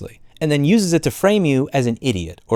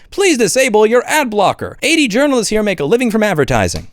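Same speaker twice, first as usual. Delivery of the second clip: mocking read; 6 semitones higher than usual. Mocking the news site's popup.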